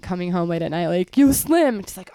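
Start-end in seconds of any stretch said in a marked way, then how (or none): 1.1-1.8 raised, higher-pitched call-out; mock yell for someone outside; imitated street yell. People outside calling the dealer's name, imitated yelling. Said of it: "people outside would be yelling his name".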